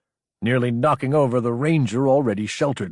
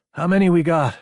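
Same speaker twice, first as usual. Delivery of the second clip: higher and louder, calling over the noise; raised voice over gunfire; 7 semitones higher, 5 dB louder than usual. A narrator's reading. Officer calls to her lieutenant under fire, raised voice. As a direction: push the question over the shooting.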